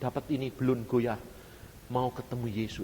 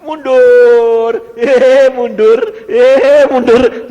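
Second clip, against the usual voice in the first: high, loud repeated orders; shouted command; 12 semitones higher, 24 dB louder, much slower than usual. Retold or imitated. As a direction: drive it backwards with your voice. Acts out ordering the tempter back. (teriakan perintah mundur bertubi-tubi)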